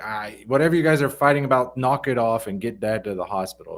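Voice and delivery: evaluative scolding. Shown as a demonstration. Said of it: "it's not evaluation, like".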